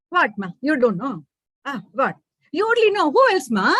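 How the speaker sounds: lightly voiced child, cheeky; a daughter ribbing her ma; teasing little girl. Manju teasing her mother.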